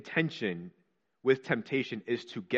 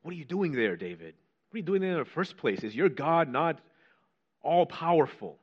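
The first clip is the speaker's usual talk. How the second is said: higher, pressing questions thrown at David; mocking challenge; 4 semitones higher than usual. Preacher voicing a doubter taunting David, pointed challenge. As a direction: needle him like a doubting accuser.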